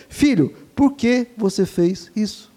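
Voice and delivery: calm asking. Shown as a demonstration. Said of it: "Não chegue já esbravejando".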